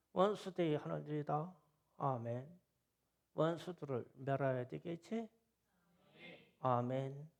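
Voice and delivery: answering amen. Retold or imitated. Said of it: "그래서".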